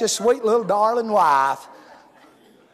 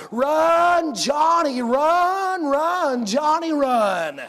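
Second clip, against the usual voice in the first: imitating a parent yelling from the bleachers, a bit higher; mock yell; 4 semitones higher, much slower than usual. Parent in the stands cheering for his son, a mild mock yell. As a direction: cheer the boy round the bases. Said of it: "scream to the top of your lungs".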